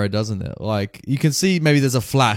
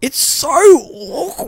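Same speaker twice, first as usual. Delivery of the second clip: drawn-out cringe; 13 semitones higher, much slower than usual. Real, not acted. Cringing at awkward film scene.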